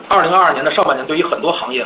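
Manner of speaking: usual speaking voice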